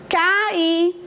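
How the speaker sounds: "cair" said ca-Í, the final I stressed. Shown as a demonstration. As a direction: hold a separate, accented I at the end of "cair". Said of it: "Ó, acento". ("cair" com acento forte no I final)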